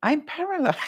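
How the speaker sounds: mock protest from a patient who can't move her legs; a lightly voiced wry patient; Lauren's deadpan protest. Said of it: "Lauren's sitting there going".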